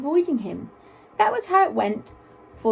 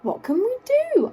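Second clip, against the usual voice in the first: anxious gazelle; 13 semitones higher than usual. A narrator's reading. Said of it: "asked the gazelle".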